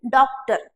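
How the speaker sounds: डॉक्टर with open 'aw', 'DAWK-tar'; wanted English vowel. Shown as a demonstration. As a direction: round the first vowel of डॉक्टर but keep it open. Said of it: "हमको चाहिए".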